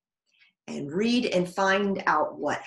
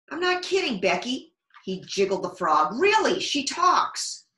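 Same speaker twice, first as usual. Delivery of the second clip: put-on insistent boy; 6 semitones higher, 3 dB louder than usual. Boy insisting to Becky his frog talks, high pleading. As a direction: make her believe you.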